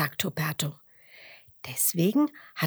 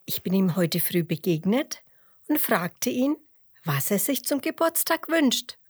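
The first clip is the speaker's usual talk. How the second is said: sheep voice; 4 semitones higher than usual. Acted. Emmerla explains, high voice.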